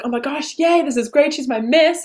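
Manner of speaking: celebrating the new Miss, thrilled; excited cheer. Retold or imitated. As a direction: cheer her on happily. Cheering for Yamuna.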